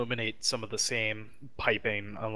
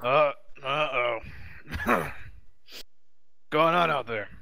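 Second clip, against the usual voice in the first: put-on gruff old voice; 5 semitones higher than usual. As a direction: play a gruff old man over the phone. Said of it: "you hear a gruff old voice".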